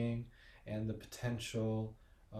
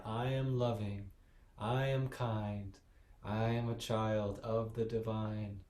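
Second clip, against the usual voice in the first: slightly louder, firmer affirmation; a bit louder. Shown as a demonstration. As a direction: say it with a little more confidence. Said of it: "say it louder".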